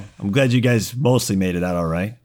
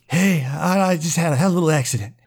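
sheepish Rory; 7 semitones higher, faster than usual. Acted. Rory sheepishly admits an accident.

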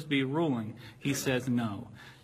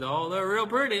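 imitating gym guy; 6 semitones higher, 4 dB louder than usual. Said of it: "And he says".

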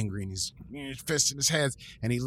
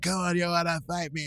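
retold challenge; 6 semitones higher than usual. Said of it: "She's shouting the challenges".

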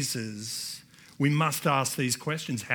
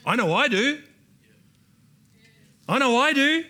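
louder and higher on the repeat; fervent affirmation; 9 semitones higher, 6 dB louder than usual. Real, not acted. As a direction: proclaim it with conviction. Preacher affirming with fervour.

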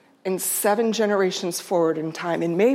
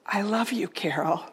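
whisper; 6 dB quieter than usual. Retold or imitated. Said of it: "she whispers in my ear".

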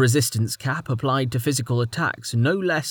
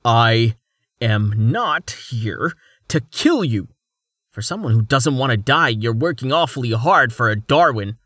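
tense words through clenched teeth; 4 dB louder than usual. Acted. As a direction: force it out through gritted teeth. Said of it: "he spoke through clenched teeth".

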